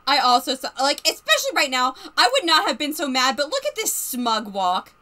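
loud, indignant outburst; loud exasperation. Real, not acted. Player annoyed at the smug character, loud and indignant. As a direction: blurt it out, fed up with him.

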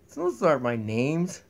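very low, slow booming voice; deep slow voice. Pretend. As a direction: rumble it out slowly.

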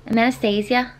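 tentative Manchester accent on the name; attempted accent. Shown as a demonstration. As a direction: try Anastasia in a put-on Manchester accent. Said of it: "hard to say in an accent".

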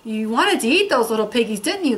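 fast, teasing witch voice; cackling witch. Acted. Witch teasing the wolf, a light cackle. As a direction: rattle it off like a witch. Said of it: "cackled the witch".

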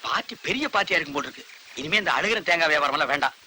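low, hushed self-talk; muttering to himself. Acted. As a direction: plan privately under the breath. Daydreaming aloud to himself. (தனக்குள் முணுமுணுக்கும் குரல்)

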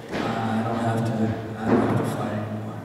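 low, loosely mumbled boxer impression; badly faked Italian-American accent; Sylvester Stallone. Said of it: "really bad Italian accent".

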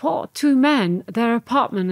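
startled, incredulous question; shocked disbelief. Retold or imitated. Retold shock at an invitation.

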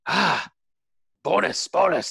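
high, gleeful crew chant; crew yelling. Acted. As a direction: yell it out like a cheering crew. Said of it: "they start to yell".

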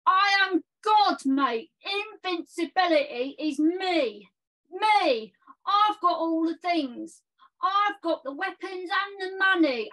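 hammed-up boastful gamer lad; silly clown. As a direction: bellow nonsense like a cocky clown. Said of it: "So I've done a poem".

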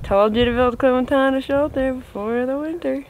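lightly voiced know-it-all commenter; mock commenter. Imagining viewers' comments about the tractor's shelter, mock commenter. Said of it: "How many people in the comments are gonna write".

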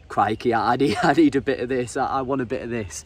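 loud, eager retold mate with a laugh; mate hooked on hearing about the fish, eagerly. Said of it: "I can hear it in his voice".

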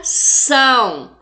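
"São" held long as one strong syllable; isolated stressed syllable. Shown as a demonstration. Teacher answering her own quiz, "São" stressed and drawn out. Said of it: "Qual que é a sílaba tônica?".

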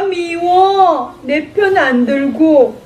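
sulky pout. Acted. Child hurt by mom.

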